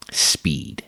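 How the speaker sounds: breathy dramatic whisper. Acted. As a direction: whisper it like a secret. Dramatic one-word announcement.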